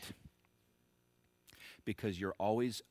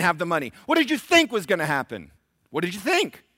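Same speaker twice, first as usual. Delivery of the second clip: builds from quick questioning to a far higher, much louder shout; preacher voicing God's hard question, louder and higher with each line; confronting shout; 10 semitones higher, 16 dB louder than usual. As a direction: grill them, rising to a full-voiced yell. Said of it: "I'll just say".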